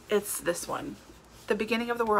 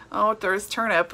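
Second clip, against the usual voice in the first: eye-rolling dismissal; 4 dB louder than usual. Retold or imitated. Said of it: "like, rolling my eyes at".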